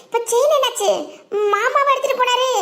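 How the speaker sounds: dismayed alarm. Acted. Relative asking what became of the chain, dismayed alarm. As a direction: react aghast at bad news. Shocked reaction to missing chain.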